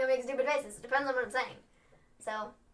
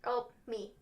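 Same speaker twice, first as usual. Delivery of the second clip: ordinary talk, nothing marked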